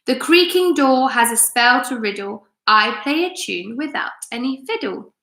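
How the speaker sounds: measured, rhythmic poem recital; poem reading. Acted. Teacher reading a poem to her class, rhythmic recital. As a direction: read each spell as a little riddle.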